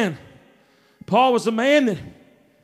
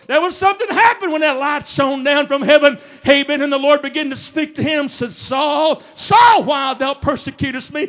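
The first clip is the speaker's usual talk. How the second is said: raised, driving sermon delivery; full-force preaching; 4 semitones higher than usual. Acted. Preacher telling church of Saul's conversion, full-force preaching. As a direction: preach it out with rising urgency.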